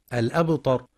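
الأبطر with a thick emphatic ط; wrong heavy t demo. Shown as a demonstration. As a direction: darken the ت of الأبتر into ط. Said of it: "يفخم التاء فيقترب لفظا من الطاء".

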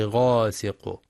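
غاسق slowly, with a full heavy غ; heavy ghayn. Shown as a demonstration. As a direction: dwell on the thick ghayn of غاسق. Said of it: "الحذر من ترقيق الغين". (غاسق بتفخيم الغين)

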